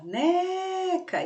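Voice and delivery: "neca" pitched high, NE held long; stretched NE. Shown as a demonstration. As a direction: draw out the NE of "neca" in a high calling tone. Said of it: "eu estiquei ali o né". ("neca" agudo, com o NE esticado)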